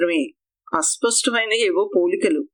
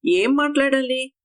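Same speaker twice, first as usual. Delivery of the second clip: a higher, scoffing question; mocking; 6 semitones higher than usual. A narrator's reading. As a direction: taunt him with it, mildly. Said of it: "హేళనగా అడిగాను". (హేళనగా, ఎగతాళిగా అడగడం)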